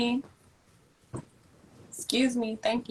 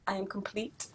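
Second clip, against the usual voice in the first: whisper; 9 dB quieter than usual. Real, not acted. Whispered contented aside.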